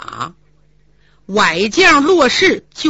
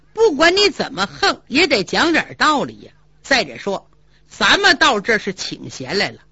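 calm rebuke. Acted. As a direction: talk him down with reason. Zhu Yuanzhang scolds his sworn brother.

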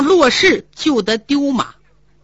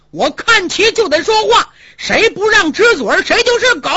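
raised voice; 5 semitones higher than usual. Acted. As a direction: fling the insult back in his face. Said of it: "胡大海提高了嗓门喊".

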